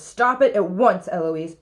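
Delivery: loud, sharp order, falling on the name; mildly acted rising temper; madder tutor. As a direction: command it to stop at once. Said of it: "he gets madder and says".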